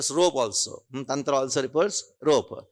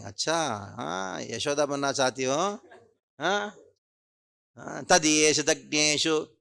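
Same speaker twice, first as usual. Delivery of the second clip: playful teasing; faster than usual. Retold or imitated. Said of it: "and started laughing".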